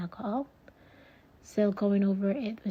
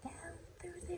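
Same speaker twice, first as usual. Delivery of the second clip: whispering; 5 dB quieter than usual. Real, not acted. Narrating the pour softly.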